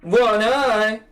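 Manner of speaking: slow, drawn-out stoner voice; lazy, easygoing, very slow; slow laid-back dude. Acted. Rohan voiced, laid-back suggestion.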